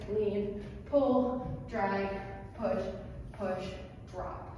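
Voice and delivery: rhythmic count calling; calling dance counts. Acted. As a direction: call out the counts like a dance teacher.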